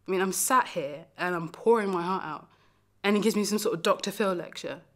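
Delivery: worked-up, incredulous outburst; acted wounded indignation; indignant. Indignant at partner's cold answer.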